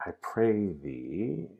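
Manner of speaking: drawn-out plea, tune swooping up; slow, imploring Juliet; pleading. Shown as a demonstration. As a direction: plead slowly, stretching the last word. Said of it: "she's pleading again".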